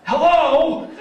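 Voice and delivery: high, questioning mother voice; mom answering phone. Retold or imitated.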